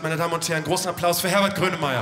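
grand entrance announcement. Acted. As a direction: call the guest on like an MC. Announces guest to audience. (laute Ankündigung eines Stargasts)

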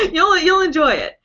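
high laughing promise. Real, not acted. Telling viewers about her friend's accent, laughing hard.

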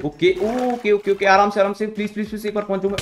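high, loud pleading while fleeing; begging them to back off; being chased. Real, not acted. Enemies chasing him.

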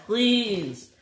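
high, drawn-out plea; pleading cry. Acted. Flying Scotsman begging for rescue, high pleading. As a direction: plead high without shouting. Struggling to stay afloat.

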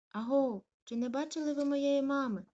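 high, loud anxious asking; calling passersby. Acted. Lost puppy asking passersby about mum, calling. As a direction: call out to strangers for help. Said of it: "запитував Коргі перехожих".

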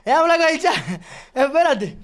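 fuerte, exigiendo la palabra; shouting match. Real, not acted. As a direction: gritando por encima del otro. Grita para que lo dejen hablar. (gritando para hablar con el chat)

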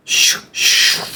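unvoiced "shook, shook" swishes; two airy swooshes; whooshing arrow noise. Shown as a demonstration. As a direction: imitate arrows whizzing past. Imitates arrows flying.

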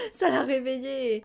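laughing groan; rueful laugh. Real, not acted. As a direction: laugh at own blunder. Laughs at own mistake.

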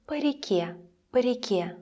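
"по реке" with по reduced to "puh"; very short vowel in "по реке"; shorter po. Shown as a demonstration. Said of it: "sounds even shorter".

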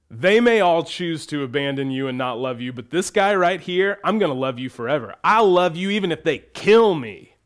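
building eager vow of loyalty; boastful Peter. Retold or imitated. Peter promising Jesus to love him forever, building vow. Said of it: "Peter, steps up and goes".

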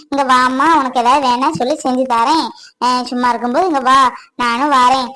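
a hint of the kind akka inviting her in; imitating kind older sister. Wife imitates the neighbour akka's kind invitation, lightly voiced. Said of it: "அப்படின்னு சொன்னாங்க".

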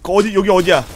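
loud urgent. Real, not acted. Urgent confused callout.

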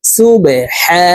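very slow "সুবে হা" with a long throaty "হা"; mid-throat ha. Shown as a demonstration. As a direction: push "হা" out from mid-throat and hold it. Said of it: "হা হরফ হলকের মধ্যখান থেকে উচ্চারণ করব". ("হা" হলকের মাঝখান থেকে টেনে)

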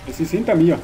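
panicked shout. Real, not acted. Player fleeing monster yells directions in fear.

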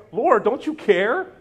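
whiny demanding sister; a needy plea to Jesus; voicing Martha.

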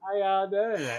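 put-on Southern accent. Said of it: "couldn't understand that southern accent".

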